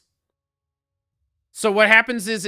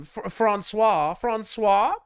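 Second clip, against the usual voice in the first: mock French; much slower than usual. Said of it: "In French".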